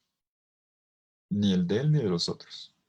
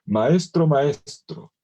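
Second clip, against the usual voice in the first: urgent cry; 4 semitones higher, 7 dB louder, much slower than usual. Retold or imitated. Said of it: "repiten dos veces la palabra maestro".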